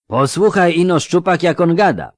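hoarse mocking thug; raspy. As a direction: rasp it out, high and jeering.

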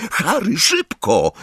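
high, urgent cry; Hermiona. A narrator's reading. Girl calls Harry from the crowd, urgent cry. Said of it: "krzyknęła Hermiona".

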